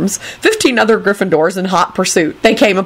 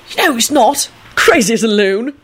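higher, cheery Irish agreement; cheerful; 5 semitones higher than usual. A narrator's reading. Dugan agreeing about Tim, cheerful. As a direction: agree brightly in a brogue. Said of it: "Dugan agreed cheerfully".

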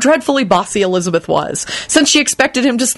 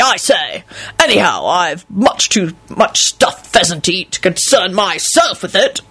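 pompous, self-righteous uncle impression; pompous lord, full of himself; booming self-righteous voice; 4 semitones higher than usual. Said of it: "in Richard's booming, self-righteous voice".

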